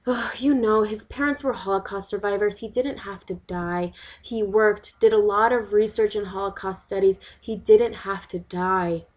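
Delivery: aggrieved local mother telling her side; lightly acted, emphatic monologue of an upset resident. Resident explains the August riots to a visitor, aggrieved.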